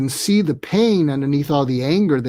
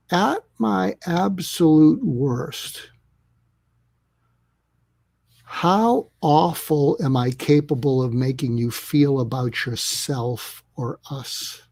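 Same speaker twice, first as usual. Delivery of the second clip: sincere apology; slower than usual. Shown as a demonstration. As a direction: ask it gently, looking them in the eye. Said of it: "you look them straight in the eye and you say".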